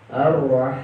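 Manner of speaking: Ar-Rah ending on a released breath; breathy h. Shown as a demonstration. Teacher showing the breathy H in Ar-Rah. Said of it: "nafasnya keluar".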